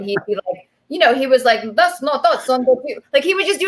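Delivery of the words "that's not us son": put-on slightly raised, jokey Russian accent; imitated Russian accent. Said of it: "like, a Russian accent".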